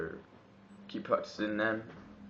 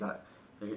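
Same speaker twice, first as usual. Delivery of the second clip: breathy robot noise demo; 6 dB quieter than usual. Shown as a demonstration. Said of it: "so you gotta breathe".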